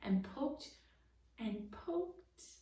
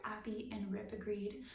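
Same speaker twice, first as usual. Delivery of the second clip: usual speaking voice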